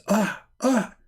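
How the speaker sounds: high mock devil laugh; a little gleeful demon laugh; shaitan laugh. Mocking Shaitan laughing from inside, high devil laugh. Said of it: "a shaitan laugh".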